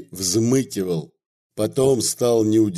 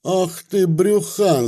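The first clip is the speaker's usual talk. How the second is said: yelling; 6 semitones higher, slower than usual. A narrator's reading. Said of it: "заорали обе вдруг".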